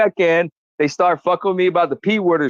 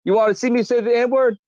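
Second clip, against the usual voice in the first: taunting a critic; 4 semitones higher than usual. Real, not acted. Taunting a named critic on camera.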